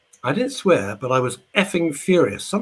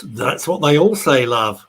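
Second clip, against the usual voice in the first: Ken Dodd impression; 3 semitones higher, 8 dB louder, slower than usual. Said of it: "Ken Dodd retorts".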